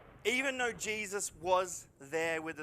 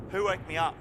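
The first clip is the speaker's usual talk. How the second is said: groggy mock waking; faster than usual. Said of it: "Sorry, did someone".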